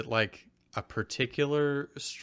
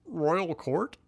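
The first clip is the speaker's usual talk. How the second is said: puzzled Drew; 5 semitones higher than usual. Acted. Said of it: "Drew repeated".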